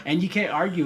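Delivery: high and loud through laughter; laughing. Real, not acted. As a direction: talk while laughing it off. Laughing while explaining.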